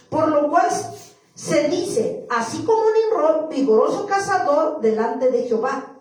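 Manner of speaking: loud, measured Bible reading; scripture reading. Acted. Preacher reading Genesis to the church, declamatory scripture reading. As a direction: proclaim the verse to the room.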